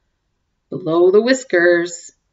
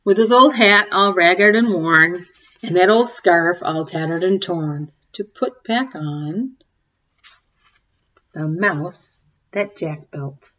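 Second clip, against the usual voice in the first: story reading; 4 dB louder than usual. A narrator's reading. Reading a cumulative rhyme to the kids, sing-song. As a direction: read it like a bedtime picture book. Reads picture book aloud.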